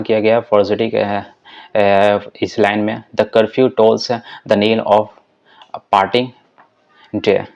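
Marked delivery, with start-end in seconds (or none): 3.2-6.3 the curfew tolls the knell of parting read very slowly, each beat spaced out; slow scansion. Shown as a demonstration. Teacher showing students the iambic beats, slow and measured. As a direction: read the line slowly, beat by beat, to show where the stress falls. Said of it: "यहाँ पे दस stress है".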